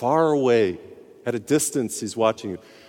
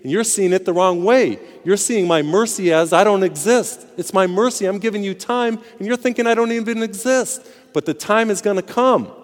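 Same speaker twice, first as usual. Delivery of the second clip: higher, louder voice of God pleading; God warning sinners, rising with urgency; raised, insistent divine voice pleading for return; 6 semitones higher, 4 dB louder than usual. Acted. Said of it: "God is saying".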